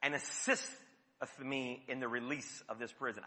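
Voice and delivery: lightly hammed-up holy solemnity; sanctimonious reading. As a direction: archaic churchy tone, gently mocked. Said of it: "we read the Bible very sanctimoniously".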